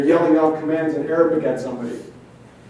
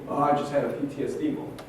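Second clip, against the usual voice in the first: mocking quote; 6 dB quieter than usual. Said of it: "stop saying".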